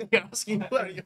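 relays the chat's question through laughter; giggling while repeating the question; laughing. Real, not acted. Streamer repeats the chat question, laughing.

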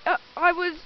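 loud, high panicked shout; shouting in dismay. Real, not acted. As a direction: yell after the departing boat. The boat leaves without them.

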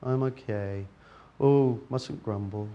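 half-hearted glum muttering; glum grumbling. Retold or imitated. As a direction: moan like you're just getting by. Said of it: "of going".

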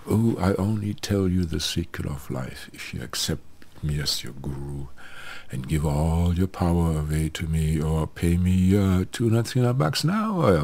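lightly put-on guru demand, rising in pitch toward the end; mock greedy guru. Guru demanding money from followers for secrets, lightly mocking.

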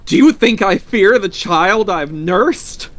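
high, loud, drawn-out challenge; defiant cry. A narrator's reading. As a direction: scorn his fear at full voice. Mother defiantly challenges frightened husband.

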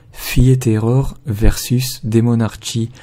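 slow, careful English pronunciation of the title; French speaker reading an English title slowly; attempted English accent. Real, not acted. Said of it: "désolé pour mon accent anglais".

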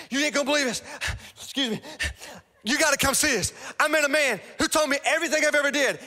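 breathless, high and loud with big news; excited woman. Retold or imitated. Woman running into town, shouting her news to everyone, excited.

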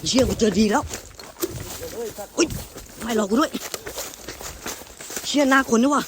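real terror, voice shooting up in panic; scared shout at a face in the woods; panicked fear. Real, not acted. Seeing a face in the forest.

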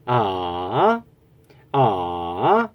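low dipping 아; third tone demo. Shown as a demonstration. Chinese teacher demonstrating the third tone, low dip. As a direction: dip low and rise back on 아. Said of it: "이게 삼 성이고요".

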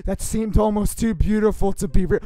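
story narration swelling into loud emphasis; narrator tone. Shown as a demonstration. Reader describing the garden at sunset, increasingly grand narrator tone. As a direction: start measured, then punch the scenery loudly. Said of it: "read this in a normal narrator tone".

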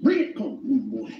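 high, clipped Jamaican patois call; imitating a Jamaican calling out; Jamaican accent. Mocking how Jamaicans call you over, Jamaican accent. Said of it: "They say".

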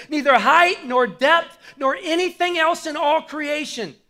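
building preacher fervor; fired up reading. Real, not acted. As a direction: let the scripture lift you as you read. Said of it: "I'm getting fired up as I read this".

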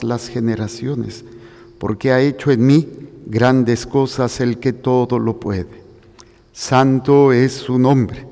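measured, declaimed scripture in clear phrases; solemn Gospel reading. Acted. Priest reading the Visitation and Magnificat to the congregation, solemn proclamation. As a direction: proclaim it formally, with deliberate pauses between phrases.

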